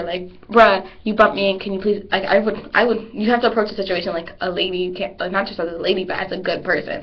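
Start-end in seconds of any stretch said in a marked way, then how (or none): 0.5-2.0 mock yelling. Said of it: "I can't start yelling at her".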